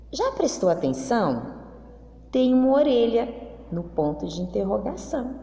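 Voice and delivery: slow, storybook read-aloud with long pauses; reading to children. Acted. Teacher reading the class text aloud, slow storybook style. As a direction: read it to the class like a picture book.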